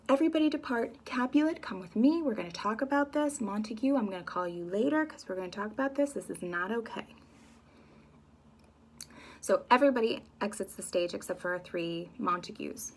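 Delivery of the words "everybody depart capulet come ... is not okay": modern-speak prince. Retold or imitated. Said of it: "So he says".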